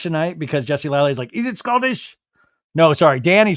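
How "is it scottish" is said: lightly put-on high questioning voice; pitched-up mimicking question; mock eager question. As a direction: imitate someone piping up with a question. Acts out a cast member's question.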